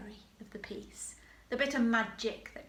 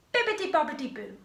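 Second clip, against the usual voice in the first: quick, higher sing-song magic words; fairy magic call; 6 semitones higher, 6 dB louder, much faster than usual. Shown as a demonstration. Teacher models the fairy's call for the class, quick and bright. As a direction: sprinkle the words like fairy dust. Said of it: "we've got the fairy".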